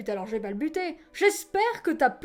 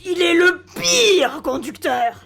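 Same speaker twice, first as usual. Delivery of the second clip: slow, drawn-out declaration; slow, heated insistence; emphatic outrage; 2 semitones higher, 4 dB louder, slower than usual. Acted. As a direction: stretch the words in exasperation. Outdoing passenger's judgement.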